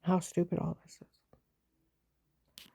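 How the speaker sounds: slow, unvoiced bitter whisper. Real, not acted. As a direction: let it out slowly under your breath. Bitter aside about the case.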